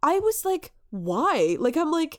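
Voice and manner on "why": loud, baffled "why"; exasperated disbelief. Retold or imitated. Viewer baffled by the film's accents, exasperated disbelief. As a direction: demand it in exasperation.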